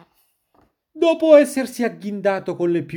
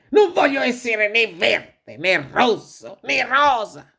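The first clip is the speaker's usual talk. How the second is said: high, drawn-out exasperated complaint; exhausted protest; 6 semitones higher, slower than usual. A narrator's reading. Worn-out wolf at the mirror, exasperated protest. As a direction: list each refusal slowly, fed up, then declare it.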